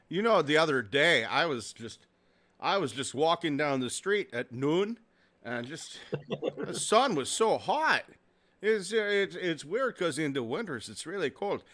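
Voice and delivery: chatty put-on Minnesota accent. Shown as a demonstration. Demonstrating Minnesota talk about the weather, put-on Minnesota accent. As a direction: overpronounce the O sounds like a Minnesotan. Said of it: "So Minnesota has".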